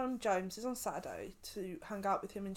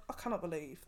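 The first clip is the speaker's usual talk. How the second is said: laughing; 4 semitones lower, 4 dB quieter than usual. Retold or imitated. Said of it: "I was like".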